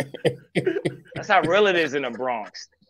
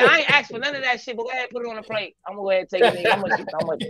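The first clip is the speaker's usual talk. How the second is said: mock customer; 8 semitones higher, faster than usual. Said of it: "I be like".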